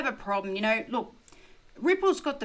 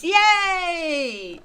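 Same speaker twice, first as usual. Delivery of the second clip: excited cheer; 8 semitones higher, 8 dB louder than usual. Real, not acted. Cheering viewer count.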